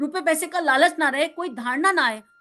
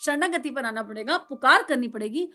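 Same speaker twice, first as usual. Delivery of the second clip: usual speaking voice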